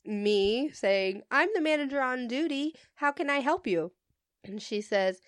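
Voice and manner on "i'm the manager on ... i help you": customer service voice. Retold or imitated. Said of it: "customer service voice".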